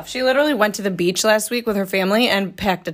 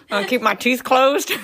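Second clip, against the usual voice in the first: Texas accent through closed teeth; higher-pitched attempt at a Texas accent; mock Texas accent; 3 semitones higher, 4 dB louder than usual. Shown as a demonstration. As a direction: keep your teeth shut for a joke Texas accent. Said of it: "They don't open their mouths when they talk".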